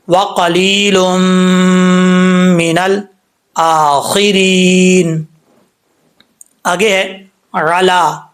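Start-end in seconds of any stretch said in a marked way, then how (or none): 0.1-5.2 وَقَلِيلٌ مِّنَ الْآخِرِينَ slowly, last vowel stretched; slow recitation. Shown as a demonstration. Teacher answers how to read it, slow recitation. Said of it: "کیسے؟". 7.5-8.2 عَلَا with a clean ain, no hamza sound; clear ain. Shown as a demonstration. Teacher models clear ain in عَلَا. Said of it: "حمزہ کا sound نہ آئے".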